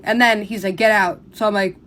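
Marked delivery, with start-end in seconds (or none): 0.8-1.2 a loud, clipped mock yell from the driver; retold yell. Uber driver kicking her out, mild mock yell. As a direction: toss out the order like a fed-up driver. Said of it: "he starts yelling".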